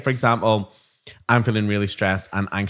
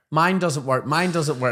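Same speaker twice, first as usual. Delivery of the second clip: put-on whiny child; 6 semitones higher than usual. Children voiced in story.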